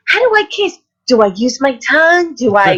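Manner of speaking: mock-bewildered rising questions; naive questioning. Retells asking people on set how.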